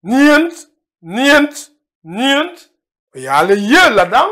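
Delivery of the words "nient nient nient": "nient" as one syllable, the a swallowed; contracted form nient. Shown as a demonstration. Teacher showing students how nayent shrinks to nient. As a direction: repeat "nient" crisply, three times. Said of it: "le A est avalé, on dit".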